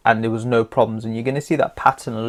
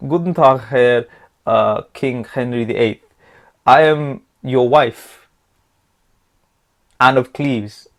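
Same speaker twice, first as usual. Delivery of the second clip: mock German greeting. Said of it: "I don't know how to speak German".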